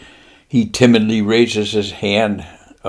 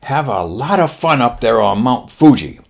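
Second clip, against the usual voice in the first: lightly voiced Japanese admiral, pitched up; 3 semitones higher than usual. Admiral promising pilots leave, light mock-Japanese voice. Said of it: "then he says".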